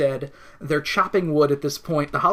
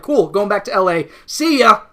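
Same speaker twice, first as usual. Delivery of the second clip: higher and louder, a chipper goodbye; breezy brush-off; 4 semitones higher, 6 dB louder than usual. Retold or imitated. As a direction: wave off the problem and leave. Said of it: "Harvey's just like".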